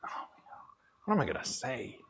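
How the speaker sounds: lightly voiced sheepish murmur; nervous hush. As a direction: mumble it like you've been put on the spot. His turn at the consultant session.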